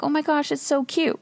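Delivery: gushing over cute. Retold or imitated. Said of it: "And I'm like".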